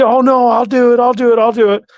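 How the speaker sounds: hammed-up pleading as her; mimicking eager girlfriend. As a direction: girlfriend eagerly agreeing to press charges, in a high mock voice. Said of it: "And so she".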